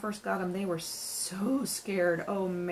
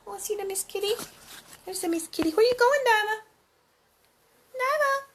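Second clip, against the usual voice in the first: high, louder sing-song call to a pet; 14 semitones higher, 7 dB louder than usual. Real, not acted. Owner calling her cat Diva, high and louder baby talk.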